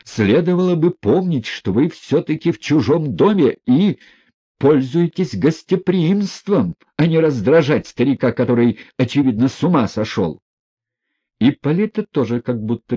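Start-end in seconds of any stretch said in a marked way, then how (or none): 0.0-10.4 high, loud, indignant scolding; angry shout. A narrator's reading. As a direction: lash out at the guest. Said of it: "крикнул он".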